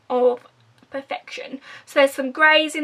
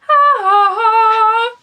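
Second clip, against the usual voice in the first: delighted gasp; 8 semitones higher, 8 dB louder than usual. Real, not acted. Gasping at the palette colours.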